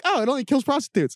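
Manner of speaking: high mocking voice; mock public. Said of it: "So people are like".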